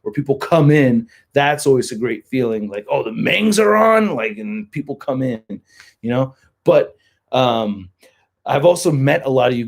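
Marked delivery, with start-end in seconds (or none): 2.9-4.1 higher, excited imitation of an arriving fan. Crowd member seeing the band is on, mock excited. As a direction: pipe up like a fan spotting the band. Voicing excited people coming in.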